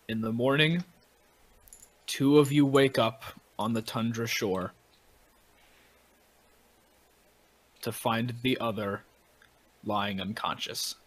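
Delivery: deliberate storytelling with long pauses; game master narration. A narrator's reading. Game master tells players of shipwreck and waking ashore, measured narration.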